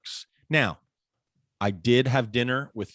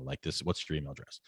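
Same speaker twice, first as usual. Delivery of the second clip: softer, proper restatement of "what's your email address"; prim professional phrasing; 8 semitones lower, 11 dB quieter than usual. Retold or imitated. Tutor modelling the proper way to ask. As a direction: say it the polite professional way. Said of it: "keep it professional".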